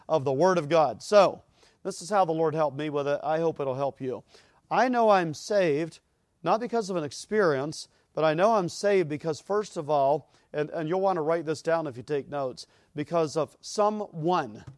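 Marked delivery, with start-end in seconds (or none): 4.7-14.6 emphatic preaching. Acted.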